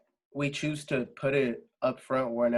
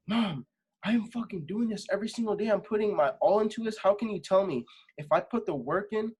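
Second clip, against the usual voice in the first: higher, pressing plea to mom, half-replayed; retold pleading argument; 4 semitones higher than usual. Arguing with mom about pursuing music, higher urgent pleading. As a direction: push back at mom with rising urgency, pitch up.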